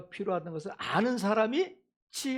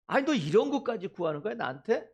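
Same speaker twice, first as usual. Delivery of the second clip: higher-pitched acted reproach; mock scolding; 3 semitones higher than usual. God imagined chiding a repeat asker, mock scolding. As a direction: chide as if fed up with repeat requests. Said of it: "이렇게 꾸짖지 않으신다는 거야".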